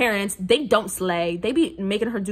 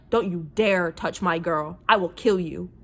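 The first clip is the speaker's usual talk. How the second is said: possessive hero; 4 semitones lower than usual. Retold or imitated. Reviewer acting out the possessive hero, low menacing mock threat. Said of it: "This man is like".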